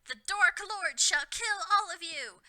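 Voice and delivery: high, loud, slow threatening cry; menacing. A narrator's reading. Snape threatening the students, loud menacing cry. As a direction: menace them like a furious henchman. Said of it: "Snape ejaculated menacingly".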